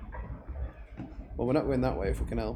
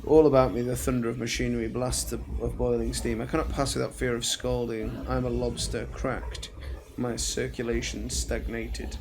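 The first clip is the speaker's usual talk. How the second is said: tormented villain's monologue read aloud; dramatic journal reading. Acted. Player reads a villain's journal on escaping the engines, dramatic reading. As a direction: declaim it like a doomed machine saboteur.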